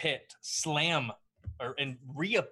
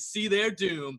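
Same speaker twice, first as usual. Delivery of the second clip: announcer voice; 4 semitones higher, slower than usual. Acted. Announcer continues.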